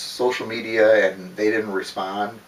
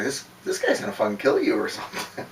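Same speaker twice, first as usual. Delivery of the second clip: chuckling through the line; amused, half-laughing; a cop laughing while he reads the emails; 2 semitones higher, 6 dB quieter than usual. Retold or imitated. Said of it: "he's, like, laughing".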